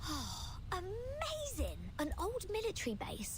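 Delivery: excited. Acted. Excited by mysterious base.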